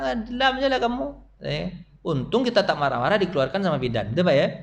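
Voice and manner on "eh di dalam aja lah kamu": mock midwife. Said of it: "pasti bidan bilang".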